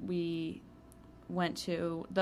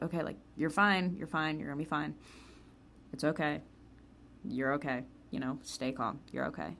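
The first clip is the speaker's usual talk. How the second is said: calming herself down; 2 semitones lower, 5 dB quieter than usual. Retold or imitated. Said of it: "talking to myself".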